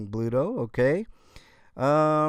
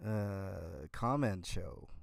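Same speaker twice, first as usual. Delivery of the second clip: odd put-on voice; 9 dB quieter than usual. Real, not acted. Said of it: "I don't know why I'm talking like this".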